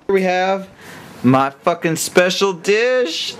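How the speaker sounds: over-the-top loud food reveal; shouting showcase. Acted. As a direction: bellow it like a TV host showing off a dish. Loud hammed-up dish showcase.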